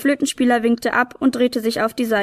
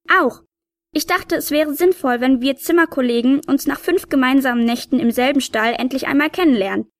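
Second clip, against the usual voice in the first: tiny cheeky helper; 3 semitones higher than usual. Acted. Tiny helper explains to her roommate the piper, lightly voiced sprite. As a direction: play a small, self-assured elf.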